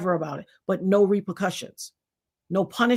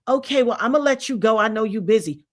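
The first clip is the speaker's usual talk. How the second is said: passive aggressive. Retold or imitated. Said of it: "you say".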